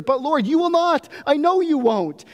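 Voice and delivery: high, fervent cry of trust; surfacing cry of faith; gasping declaration. A narrator's reading. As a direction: burst up from under water with conviction. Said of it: "he gasps for air and he says".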